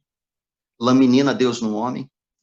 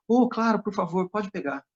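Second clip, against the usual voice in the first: polite stranger; 6 semitones higher than usual. Retold or imitated. Stranger at café answers.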